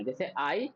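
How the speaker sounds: "I" said as a clear "aai"; pronunciation demo. Shown as a demonstration. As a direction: open "I" like the word eye. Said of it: "आई लगा करके बोलना".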